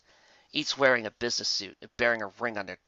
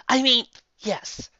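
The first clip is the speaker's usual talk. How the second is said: demure; 12 semitones higher, 6 dB louder, slower than usual. Acted. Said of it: "Twilight said demurely".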